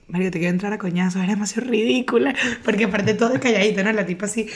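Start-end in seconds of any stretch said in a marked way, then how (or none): 0.1-2.3 exasperated friend. Retold or imitated. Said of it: "el maracayero me decía y que".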